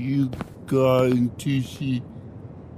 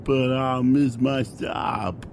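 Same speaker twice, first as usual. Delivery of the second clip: put-on drunken whiny shout. Drunk passenger protests.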